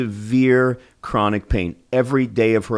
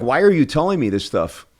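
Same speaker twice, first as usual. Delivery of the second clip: lightly imitated dentist, pitched up in irritation; upset dentist; 5 semitones higher than usual. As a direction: retell his annoyed challenge, higher. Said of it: "got upset".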